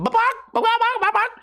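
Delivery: high chicken squawk impression; mock hen noises; imitated chicken clucks. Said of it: "what is a chicken gonna do?".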